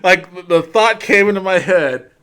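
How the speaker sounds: laughing apology. Real, not acted. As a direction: talk through the giggles after cracking up. Apologizes while still laughing.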